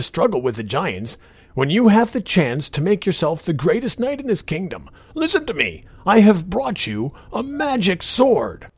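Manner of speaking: put-on a strange old man, coaxing; weary old child. Old man tempts Roland.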